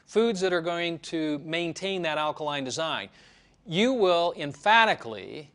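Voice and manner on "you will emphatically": emphatically said with extra weight and a slight lift; stress on emphatically. Shown as a demonstration. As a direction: lean hard into the word emphatically. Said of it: "emphasis added on emphatically".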